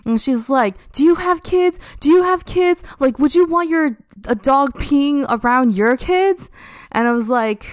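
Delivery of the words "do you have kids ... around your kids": high-pitched imitation of an outraged mother; retelling a stranger yelling in the park, high and mocking; mock screaming woman. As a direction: mimic her shrill demand, pitched way up. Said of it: "just starts screaming at me".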